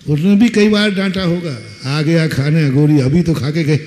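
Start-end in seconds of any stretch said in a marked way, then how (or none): 1.9-3.8 a touch of mother's scolding; half-hearted mocking scold. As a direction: mildly nag the hungry son. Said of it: "mummy ने भी क्या कहा होगा".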